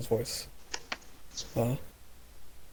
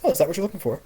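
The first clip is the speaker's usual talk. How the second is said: put-on higher, brighter young woman's voice; young female voice; 5 semitones higher, 4 dB louder, much faster than usual. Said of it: "a young female's voice".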